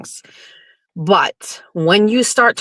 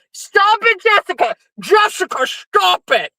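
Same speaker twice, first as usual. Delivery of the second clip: laughing; 12 semitones higher than usual. Real, not acted. Scolding chat while laughing.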